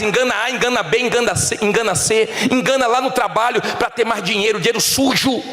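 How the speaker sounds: high, driving pulpit rebuke; preach. Real, not acted. (pregação de repreensão, em tom agudo)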